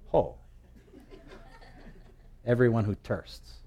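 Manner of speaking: lightly put-on Hawaiian pidgin, "thirsts" as "tursts"; a hint of Hawaiian pidgin accent. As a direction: try it in local Hawaiian pidgin. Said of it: "Maybe he said it with a pidgin accent".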